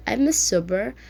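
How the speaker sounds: put-on drunk, slurring the words; slurred voice. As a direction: slur it like he's drunk. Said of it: "he says in a slurred voice".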